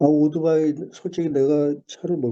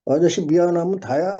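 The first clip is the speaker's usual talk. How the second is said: rude retort; 6 semitones higher than usual. Retold or imitated. Young delivery rider mocks the apologizing driver, in a hostile higher snarl. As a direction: throw it back at him like you could eat him alive. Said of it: "반말을 하면서 막 ... 잡아먹을 듯이".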